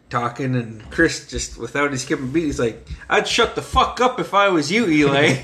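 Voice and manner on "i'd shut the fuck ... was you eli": laughing threat. Retold or imitated. Retold threat from Chris.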